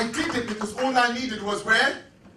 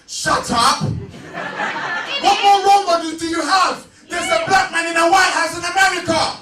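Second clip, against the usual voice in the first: louder, rising shout at the crowd; fired-up shout; 2 semitones higher, 3 dB louder than usual. Real, not acted. Speaker to the young audience, indignant loud shout. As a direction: hammer it home, indignant.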